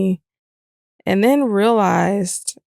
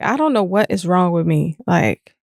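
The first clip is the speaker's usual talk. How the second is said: her voice of me. Retold or imitated. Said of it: "I was like".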